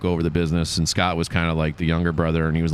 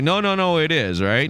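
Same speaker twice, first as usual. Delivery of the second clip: high insistent no no no; imitated protest; mock insisting; 9 semitones higher than usual. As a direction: push back in a higher mock voice. Advisor insisting.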